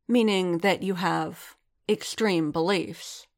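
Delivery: slow, patient, talking down; slowly, condescending. Acted. Kryze explaining to Din like to a dim beast, slowly. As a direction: spell it out slowly as to a dim pupil.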